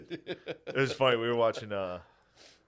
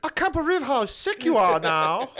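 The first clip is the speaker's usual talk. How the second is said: high, loud, slow mock Asian accent; exaggerated Asian-accented gushing, pitched way up; hammed-up Asian accent; 4 dB louder, slower than usual. Comedian visiting a sick fan, mock Asian accent. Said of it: "some hard Asian accents".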